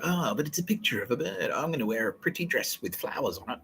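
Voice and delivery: mock innocence. Mocking the pretenders who dress up as Mother Nature, mock innocence. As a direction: mimic a sweet-talking fake nature lover.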